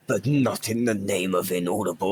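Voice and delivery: whispered parody of a quote; hushed mock-solemn delivery; mock dramatic whisper. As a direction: whisper it as a joke.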